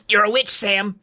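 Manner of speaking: high, mild scream; understated scream from a weak voice; screaming, voice breaking. A narrator's reading. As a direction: pitch it up, voice breaking a little. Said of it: "she screamed, her weak voice breaking".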